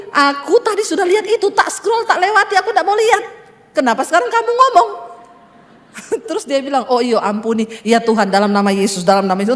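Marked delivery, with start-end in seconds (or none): 0.1-4.9 mock irritation, speeding up at the end; annoyed complaint. Retold complaint to husband. 6.9-9.5 husband's low, hurried penitent prayer, half laughing; mock hasty prayer. Husband's quick prayer, mocked.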